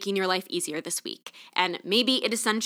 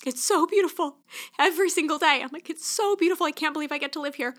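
choked up; 7 semitones higher, faster than usual. Real, not acted. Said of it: "I'm literally getting choked up".

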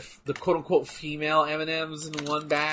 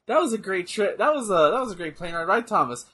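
higher, hammed-up French accent; 4 semitones higher, 4 dB louder than usual. Joking about landing in the UK with a French accent, mock French accent. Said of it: "you have a French accent".

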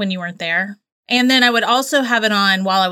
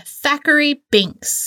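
savoring the name; 5 semitones higher, slower than usual. Pretend. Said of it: "Isn't that such a name?".

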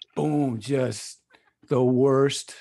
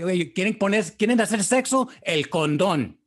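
a touch louder, mock-stern father lecturing his kids; imitating dad; 4 dB louder than usual. Dad warning his kids about condoms, mock-stern. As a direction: play his dad laying down the law with a hint of stern father. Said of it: "Okay, Dad".

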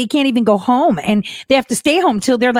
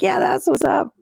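mock sassy reply; 10 semitones higher, 3 dB quieter than usual. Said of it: "we're like".

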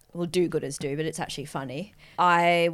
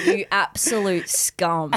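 mock insult; slower than usual. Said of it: "J K".

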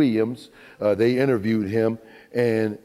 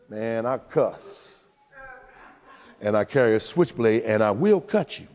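tough Peter. Acted. Peter voiced as tough guy.

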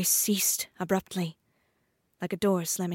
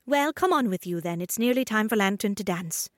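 spider Sleeve. Acted. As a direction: hurry her along. Sleeve urges her.

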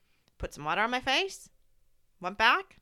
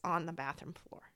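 whisper; 4 semitones lower, 8 dB quieter than usual. Real, not acted. Recalling sobbing alone.

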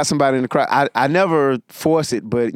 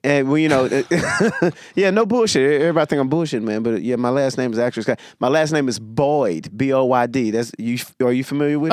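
comic doing crowd work; 2 semitones higher than usual. Pretend. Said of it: "I'll pretend to be that person".

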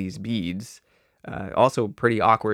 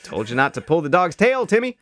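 scolding parent; 6 semitones higher, 3 dB louder than usual. Pretend.

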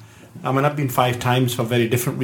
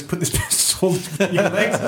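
higher, laugh breaking into the quote; laughing retelling; 5 semitones higher than usual. Retold or imitated. Guest retelling a soldier's order in the car, laughing.

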